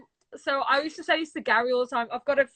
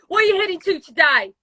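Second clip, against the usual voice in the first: louder, laughing echo; laughing mimicry; 5 dB louder than usual. Echoing her friend's cabbie impression, laughing. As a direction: repeat it through laughter.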